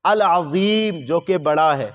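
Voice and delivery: العظیم کی ظ کو آہستہ صاف ادا کریں; ظ پر زور دے کر سکھائیں; careful pronunciation. Shown as a demonstration. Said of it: "وا کے ساتھ". (درست ظ کی ادائیگی)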